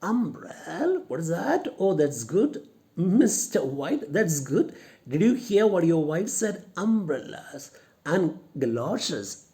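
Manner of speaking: mildly mocking sergeant, amused; amused mockery. Shown as a demonstration. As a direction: scoff at the idea of umbrellas. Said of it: "he finds it very funny".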